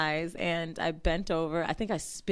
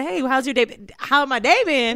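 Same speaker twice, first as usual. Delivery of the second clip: higher, louder, slowed mock small talk; mock casual greeting; 7 semitones higher, 10 dB louder than usual. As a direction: ham up the guy's awkward hello. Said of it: "he said".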